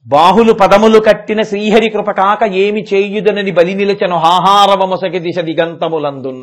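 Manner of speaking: sing-song Telugu verse. Acted. Recites verse.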